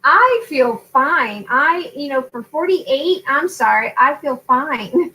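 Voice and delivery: slow, drawn-out insistence; mock-defensive protest. Mother retelling her protest to her daughter, mock defensive. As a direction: stretch the words in playful protest.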